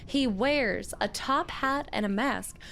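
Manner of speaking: a lightly voiced old widow reading her letter; old widow's letter. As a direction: read it as the bitter old miner's widow. Old woman voice continues.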